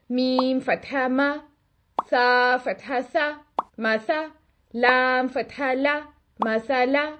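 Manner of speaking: slow clear "मा सा ला" with open "आ"; correct fatha. Shown as a demonstration. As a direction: spell the letters slowly, mouth opened top to bottom. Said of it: "ये तो होगी इसकी दुरुस्त अदायगी". (सही फतहा, धीरे से)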